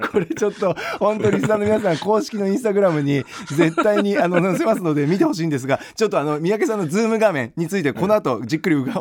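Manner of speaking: holding back laughter; talking through suppressed laughs; stifled giggles. Real, not acted. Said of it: "笑いをこらえてます".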